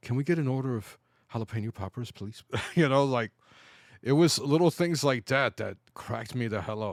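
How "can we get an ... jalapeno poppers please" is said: soft, timid, hushed half-whisper. Retelling a man among killers and drug dealers ordering food, soft half-whisper. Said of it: "this motherfucker whispers softly".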